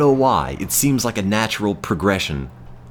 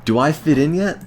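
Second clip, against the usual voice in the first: eager exchange student; 4 semitones higher than usual. Pretend. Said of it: "It's like".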